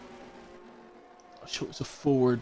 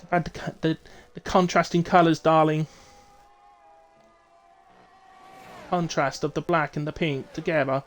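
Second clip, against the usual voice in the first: put-on fashionista accent; 3 semitones higher than usual. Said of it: "ever attempted that accent".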